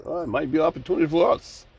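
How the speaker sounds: quick, overly nice corporate voice; a mild mock of a smooth executive; real nice. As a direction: say it sweetly, like a salesman. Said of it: "Say it real nice".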